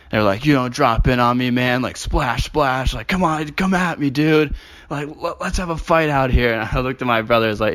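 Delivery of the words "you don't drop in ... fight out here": hammed-up surfer bro, higher; taunting mock tough guy. Mocking aggressive surfers.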